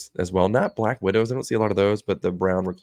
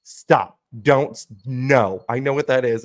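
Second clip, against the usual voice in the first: daughter protesting; 4 semitones higher, 5 dB louder than usual. Retold or imitated.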